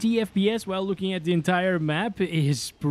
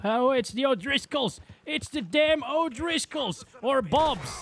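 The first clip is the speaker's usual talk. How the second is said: excited outburst; 9 semitones higher than usual. Real, not acted. Enemies appear in the game.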